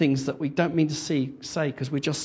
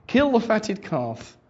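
excited father; 6 semitones higher, 3 dB louder, slower than usual. Acted. Joyful father orders a feast.

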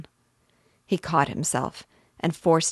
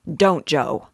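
urgent shout; 7 dB louder than usual. Acted. Shane stops Father grabbing rifle.

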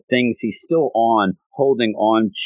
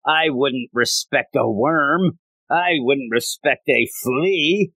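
slow, higher-pitched mock disdain; haughty disdain; 5 semitones higher, slower than usual. Magu-chan belittling a lowly human, haughty. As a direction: draw it out, looking down on lesser beings.

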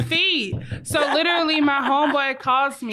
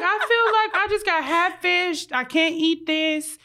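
exasperated protest; 5 semitones higher than usual. Retold or imitated. Woman retelling her complaint to her date about the wings, exasperated. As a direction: plead your case, half laughing by the end.

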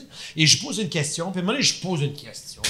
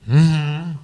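hinting hum-hum; 4 dB louder than usual. Retold or imitated. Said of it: "En voulant dire, «Pars ta musique»".

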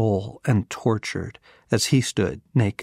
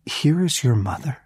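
higher, rising in disbelief on here; incredulous rise; 4 semitones higher than usual. Shown as a demonstration. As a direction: say it as if you can't believe it. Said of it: "you have got to be kidding me".

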